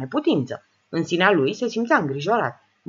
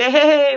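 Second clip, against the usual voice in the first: louder short cackle; mocking old chuckle; 8 semitones higher, 9 dB louder than usual. Old woman mocks the men's theatre, short cackle. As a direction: cackle at their act like a crone. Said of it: "Bătrâna râse scurt".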